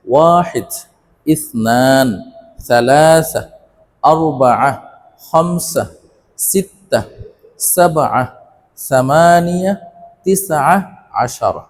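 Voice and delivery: Arabic numbers recited one by one with pauses; measured teacher's drill, long vowels held; repeat-after-me recap. Shown as a demonstration. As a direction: count in Arabic for learners to echo, word by word. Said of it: "আবারও বলছি".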